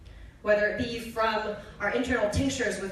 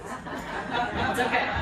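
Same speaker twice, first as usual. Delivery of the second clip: laughing; 2 semitones higher, much slower than usual. Real, not acted. Laughing at the name.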